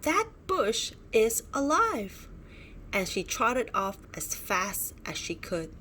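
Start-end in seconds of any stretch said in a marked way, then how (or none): 0.0-2.3 frightened. Acted. Frightened dino cries out.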